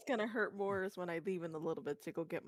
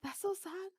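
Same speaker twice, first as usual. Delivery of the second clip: mock sad girl; 10 semitones higher, slower than usual. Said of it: "And she's like".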